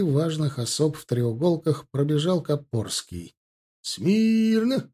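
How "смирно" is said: sharp parade-ground bark, pitched high; barked command. A narrator's reading. Officer commanding the dragoon ranks: barked, high and sharp. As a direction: bark it with all your might. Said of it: "рявкнул он, что было сил".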